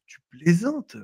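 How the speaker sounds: Tu plaisantes said high with surprise; surprised disbelief. Shown as a demonstration. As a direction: react in disbelief. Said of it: "de la même manière qu'on pourrait dire".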